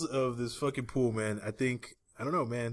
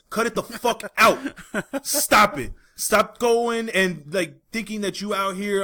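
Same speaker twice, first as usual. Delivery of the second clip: mock rant; 2 semitones higher, 4 dB louder than usual. Real, not acted. Ranting at gym posers.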